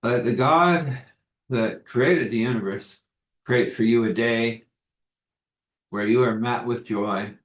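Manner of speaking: measured, earnest blessing over the listeners; spoken blessing. Acted. Pastor blessing his listeners, measured and earnest.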